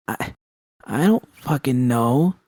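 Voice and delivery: choking the words out, slow; sputtered, slowed by nausea; sputtering. Acted. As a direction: sputter it out slowly between retches. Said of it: "I sputtered".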